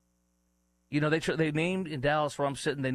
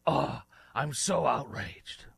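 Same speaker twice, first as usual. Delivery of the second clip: mocking holier-than-thou voice; mock outrage; 3 semitones higher, slower than usual. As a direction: fake indignant sigh, slow and drawn. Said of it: "talk like I'm, holier than thou".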